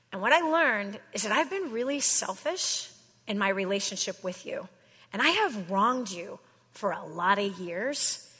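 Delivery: gentle demo of a heartfelt sorry; sincere apology script. Shown as a demonstration. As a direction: model a sincere apology to the borrower. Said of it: "here's the simple words that you use".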